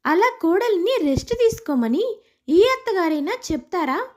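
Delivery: daughter nagging her mother, half-hearted yell; scolding shout. Acted. Daughter scolds her mother for pampering the bride, mild mock shout. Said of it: "అని అడుగుతుంది గట్టిగా అరుస్తూ".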